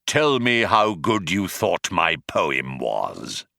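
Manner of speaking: slow, weighty villain line; melodramatic Vogon. Acted. The Vogon finishes his threat slowly and melodramatically. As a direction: drop it slowly after the pause. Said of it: "melodramatic effect".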